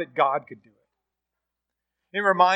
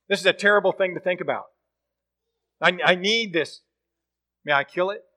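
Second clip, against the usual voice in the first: angry outburst; 4 semitones higher, 4 dB louder, faster than usual. Retold or imitated. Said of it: "And the man gets angry".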